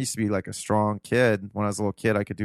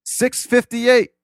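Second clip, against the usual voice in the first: grandpa announcing the time; 11 semitones higher, 5 dB louder than usual. Retold or imitated. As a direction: drag out the time, then chirp the wake-ups. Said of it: "he goes".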